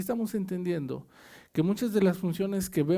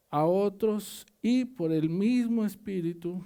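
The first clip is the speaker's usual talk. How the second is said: scripture reading. Acted. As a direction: read the verse out to the church. Reads scripture aloud to congregation. (lectura de la Biblia en voz alta)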